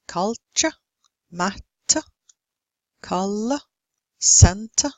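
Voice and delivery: "Culture, matter, color, center" with strong first syllable, faint uh ending; first-syllable stress, schwa ending. Shown as a demonstration. Teacher giving schwa examples, "Culture, matter, color, center" with unstressed endings. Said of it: "stress is on the first syllable".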